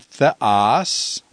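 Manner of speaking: theos with the final OS stressed; stress on ultima. Shown as a demonstration. Teacher showing the acute's place, theos stressed on OS. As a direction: hit the last syllable of "theos". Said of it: "acute is on the ultima".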